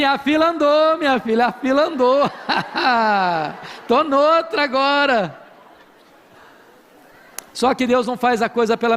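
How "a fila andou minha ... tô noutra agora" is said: higher, teasing, laughing through it; playful "a fila andou" taunt; sassy brush-off. Retold or imitated. Pastor joking to ex-wife, sassy and laughing. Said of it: "Ou eu diria assim".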